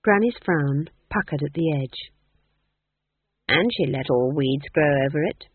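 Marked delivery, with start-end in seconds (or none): 3.5-5.5 prim. Acted. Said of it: "she observed primly".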